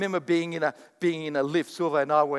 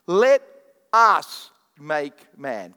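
booming quote; 8 dB louder, much slower than usual. Acted. Preacher quoting God at full force.

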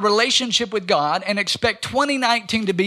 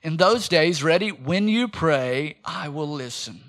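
slow unison reading; 3 semitones lower than usual. Shown as a demonstration. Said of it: "Let's say this together".

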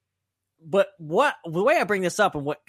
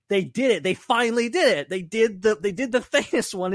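mock-excited fans, pitched higher; 7 semitones higher than usual. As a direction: imitate fans thrilled it finally happened. Fans reacting to theory seemingly confirmed.

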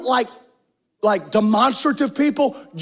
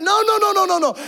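emphatic refusal; 6 semitones higher than usual. Real, not acted. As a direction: cut it off hard, high and forceful. Preacher rejecting other names.

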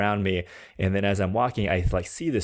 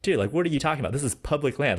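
higher-pitched, exasperated comeback; indignant retort; 6 semitones higher, faster than usual. Retold or imitated. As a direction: push back at the guy in disbelief. Indignant retort to threatening hunter.

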